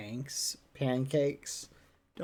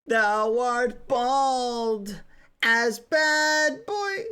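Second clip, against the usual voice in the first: mock Shakespearean insult; 3 semitones higher, much slower than usual.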